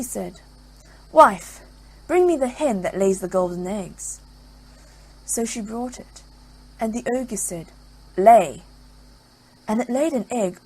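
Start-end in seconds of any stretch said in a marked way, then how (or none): 1.1-4.2 loud bossy ogre calling his wife; gruff ogre command. Acted. 8.2-8.6 one loud clipped order; ogre's loud command. Acted. Ogre orders the hen.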